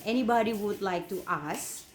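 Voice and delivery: "anybody" goes up, dips, then "ask" rises; up-and-down question intonation. Shown as a demonstration. Teacher shows students how asking differs from presenting, up-and-down question intonation. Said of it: "naik dan turun".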